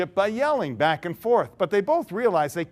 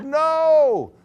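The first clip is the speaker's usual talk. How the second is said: much higher, louder flat no; blunt refusal; 10 semitones higher, 6 dB louder than usual. Acted. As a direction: slam the door shut in one word. Mister D refuses flatly.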